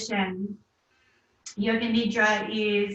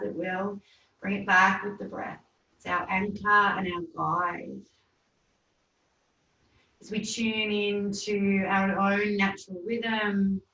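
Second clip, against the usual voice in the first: calm yoga nidra guiding voice, unhurried with long pauses; settled, measured relaxation voice; guided meditation. Acted. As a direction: lead them gently into rest, drawing out the breath cues.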